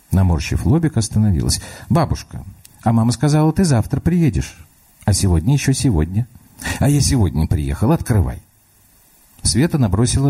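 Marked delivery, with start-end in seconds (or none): 1.9-8.4 put-on higher, light little girl's voice; a small girl reasoning through the door; child voice. Little girl talks to grandma through the locked door, child voice.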